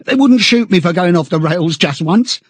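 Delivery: high, pleading, stammering chap; eagerly appealing. A narrator's reading. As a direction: beg anxiously for reassurance. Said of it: "began eagerly appealing to him".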